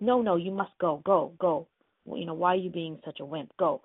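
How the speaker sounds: retold bossy urging; pushy. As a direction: order a reluctant husband about. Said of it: "she was being really pushy about it".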